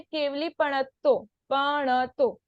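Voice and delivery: पणत्तो with only one short ण; पणत्तो as people commonly say it, single ण; common mispronunciation. Shown as a demonstration. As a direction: drop the half ण in पणत्तो. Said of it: "हम क्या बोलते हैं?".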